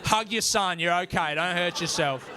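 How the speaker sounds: lightly voiced encouraging spotter; spotting mum. Mum spots dad through a hug, mock encouragement. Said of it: "Mum's there spotting him".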